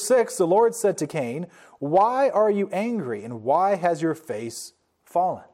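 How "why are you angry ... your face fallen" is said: loving father. Acted. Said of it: "as a loving father".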